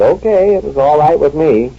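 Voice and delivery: high, airy and offhand; mock breezy. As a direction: toss it off lightly, singsong. Shrugging off the rebuff.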